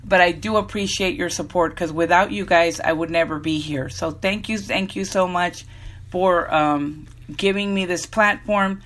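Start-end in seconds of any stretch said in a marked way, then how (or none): 4.1-8.8 breathless between phrases; out of breath. Real, not acted. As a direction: talk while short of breath. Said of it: "Sorry to be out of breath".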